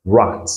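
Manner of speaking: rat with a short flat A; model word. Shown as a demonstration. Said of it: "nous avons rat".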